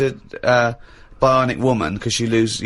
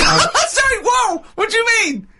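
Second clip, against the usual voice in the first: incredulous. Real, not acted. Incredulous laughing reaction.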